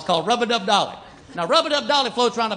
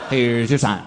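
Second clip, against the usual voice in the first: punchline; 11 semitones lower, much slower than usual. Acted. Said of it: "punchline catchphrase".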